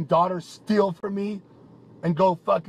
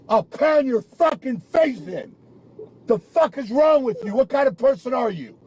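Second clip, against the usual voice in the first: angry threat; 4 semitones higher, 3 dB louder than usual. Real, not acted. Threat in escalating fight.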